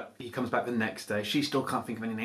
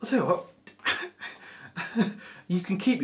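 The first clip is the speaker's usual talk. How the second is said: troll relenting; 10 semitones higher than usual. Acted. Troll gives in, high.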